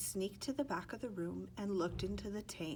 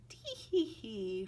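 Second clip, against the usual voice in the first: faint giggle; 3 semitones higher, slower than usual. Acted.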